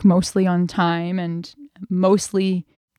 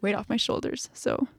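voice breaking; 3 semitones higher than usual. Real, not acted. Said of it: "I'm trying not to cry".

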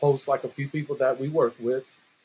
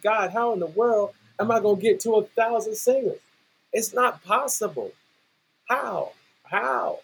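retold disgust; 5 semitones higher than usual. Coach asking God how to reach a thousand, exasperated. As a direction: plead upward, fed up, softening on the repeats. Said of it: "I was disgusted".

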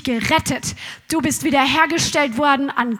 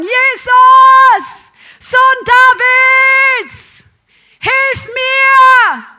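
high, loud cry for help; desperate shout; 8 semitones higher, 9 dB louder, much slower than usual. Retold or imitated. Blind beggar cries to Jesus over the crowd, full shout. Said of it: "Und er fängt an zu sagen".

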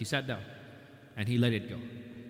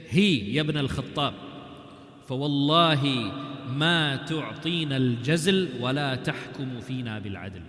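loud, rude challenge to the ruler; disrespectful demand; 5 dB louder than usual. Retold or imitated. Uyayna rudely confronting Umar, loud and disrespectful. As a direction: bark it at him without respect. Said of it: "He doesn't address him with respect".

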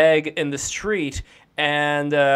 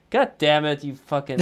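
stifled giggles. Real, not acted. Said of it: "I try not to laugh".

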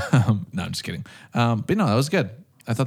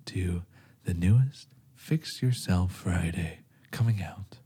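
like a serial killer inviting you in; creepy sexy voice; 3 semitones lower, 3 dB quieter than usual. Acted. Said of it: "You have the creepiest, like, sexy voice".

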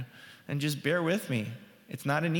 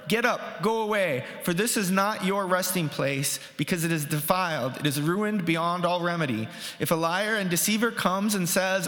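scripture reading. Acted. Pastor reading Micah aloud to his congregation, declaiming. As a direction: read the prophet's words out to the congregation.

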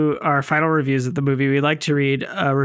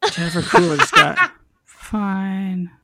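laughing; slower than usual. Real, not acted. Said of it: "Hey, it's".

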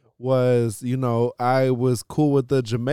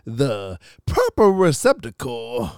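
mock Southern accent; 3 semitones higher than usual. Mock genteel Southern gentleman bit.

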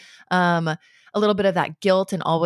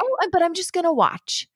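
gentle parent; 11 semitones higher than usual. Acted. Parent telling child they will only watch, lightly apologetic. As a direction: back out lightly in a high voice.

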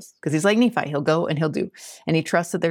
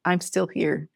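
slow, hushed, humble declaration; slower than usual. Acted. Jeremiah reminding the Lord he stays, humbly. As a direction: say it simply, trailing into near-whisper. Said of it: "in his humble way".

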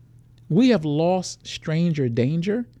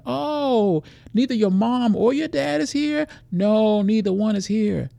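put-on high, loud friendly stranger and child; acted sweet-talking stranger; 6 semitones higher, 4 dB louder than usual. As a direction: coax the child, sugary and bright. Stranger questions child in store.

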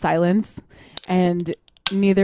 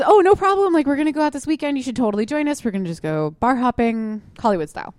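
put-on high, bright, quick party-girl quote; bubbly friend voice; 5 semitones higher than usual. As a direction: chirp it like an eager friend.

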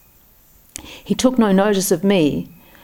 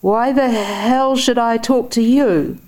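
put-on high, slow, belligerent drunk; drunken roar; 6 semitones higher, slower than usual. A narrator's reading. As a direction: roar it over the train noise. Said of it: "roared above the clacking wheels".

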